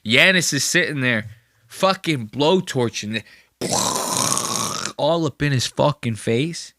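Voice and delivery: ordinary talk, nothing marked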